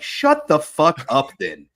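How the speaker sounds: drawn-out, slow comic outrage; hammed-up telling-off, close to laughing; mock exasperated retort. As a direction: stretch each jab in mock disbelief. Acted exasperated retort to imagined boasters.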